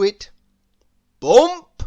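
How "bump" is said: sudden loud high Bump. A narrator's reading. Narrator sounding Mister Bump hitting the ladder, loud and high. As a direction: punch it out like a crash.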